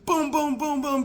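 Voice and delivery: high, even booms; imitated banging. Wife imitating husband clattering in the attic, high booms. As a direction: chant the banging noises up high. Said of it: "I can hear clangering".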